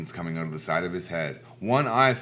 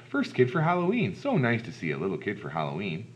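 lady greeting. Acted. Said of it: "A lady opened up the door".

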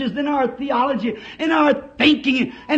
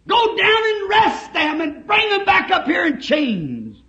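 angry order; 5 semitones higher than usual. Acted. Theologians order the arrest.

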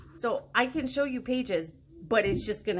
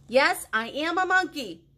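monkey voice; 5 semitones higher, 6 dB louder than usual. Acted. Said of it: "in my monkey voice".

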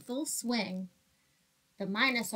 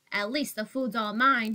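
grumbling. Acted. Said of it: "he grumbled".

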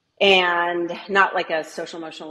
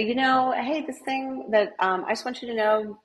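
gentle teacher check-in; 3 semitones higher than usual. Shown as a demonstration. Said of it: "And then say".

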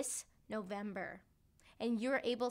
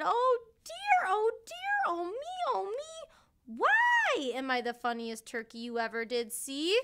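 sad turkey lament; 8 semitones higher, 7 dB louder than usual. A narrator's reading. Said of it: "And Timmy said".

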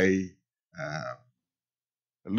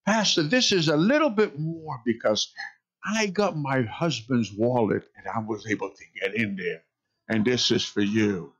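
voicing the grandmother; 3 semitones higher than usual. Pastor voices the grandmother again.

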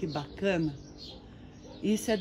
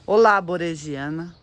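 louder, rising hello; louder greeting; 6 dB louder than usual. Acted. Vlogger calls hello to her orchid, louder. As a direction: call out a cheerful hello.

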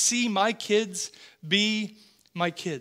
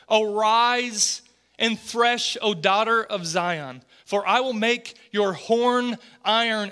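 measured, solemn Bible reading, slowing on key phrases; scripture reading. Acted. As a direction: read the verses aloud to the church, deliberately. Reads scripture aloud to congregation.

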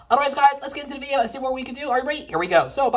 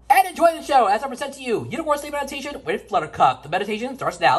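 show announcer. Acted.

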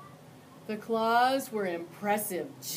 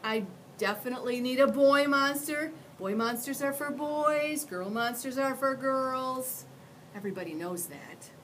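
put-on high, hesitant little boy; a polite kid asking carefully; young boy voice; 5 semitones higher, 5 dB louder than usual. Boy insists.

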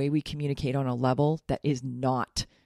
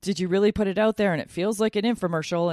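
higher and louder mock alarmed inner voice; resisting inner voice; 6 semitones higher, 5 dB louder than usual. Coach voicing her own doubting inner part, mock alarmed and higher. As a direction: play the part of you that panics at self-promotion. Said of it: "Part of me right now is resisting this, going".

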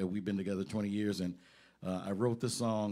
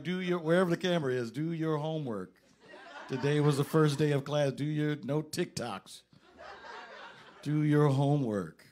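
mock-stern "do your homework" through laughs; laughing parental nag; 3 semitones higher than usual. Dad teasing his college son on camera, laughing. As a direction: nag the kid, chuckling. Joking message to son watching.

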